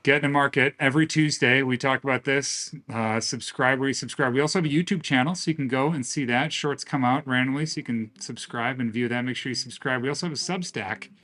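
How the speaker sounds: upbeat host sign-off read; bright plug for subscribing, brisk; cheerful announcer-style wrap-up with music; podcast outro. Acted.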